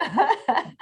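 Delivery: high, startled what-did-I-miss; shocked disbelief. Retold or imitated. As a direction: squeak out the shock. Retelling own shocked reaction.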